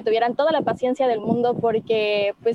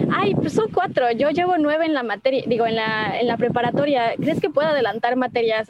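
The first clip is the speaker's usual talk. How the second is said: naive excited voice. Retold or imitated. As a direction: gush it like a hopeful new student. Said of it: "era como".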